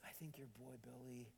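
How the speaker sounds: soft retold whisper to a stranger; a kind stranger whispers reassurance to the father. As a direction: hush it like a kind mother at the airport. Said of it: "she whispers".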